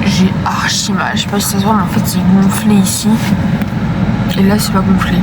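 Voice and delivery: in pain after surgery, slurred; weak after surgery. Real, not acted. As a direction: numb lip, pained speech. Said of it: "j'ai envie de pleurer".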